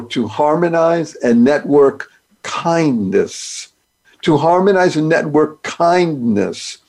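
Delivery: slow, spelling out each word; slow deliberate. Shown as a demonstration. Host slowly unpacks his thank acronym. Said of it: "spells out his acronym".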